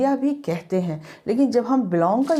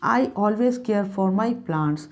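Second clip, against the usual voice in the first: slow dictation; much slower than usual. Shown as a demonstration.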